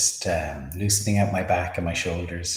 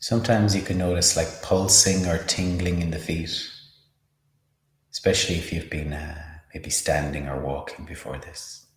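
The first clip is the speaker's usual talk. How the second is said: unhurried meditation guide, long pauses; measured, spacious mindfulness instruction; guided meditation. Acted. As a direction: lead a body scan calmly, leaving space between phrases. Leads a body-scan meditation.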